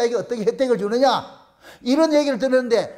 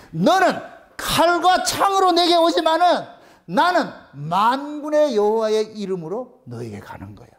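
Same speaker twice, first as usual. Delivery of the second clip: bold proclamation. Retold or imitated. David's proclamation to Goliath.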